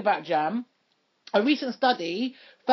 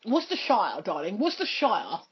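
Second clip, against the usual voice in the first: posh "Worcestershire" ending "shire-uh"; plummy voice; 2 semitones lower than usual. Pretend. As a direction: say "Worcestershire" like a toff. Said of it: "If you wanna sound really posh".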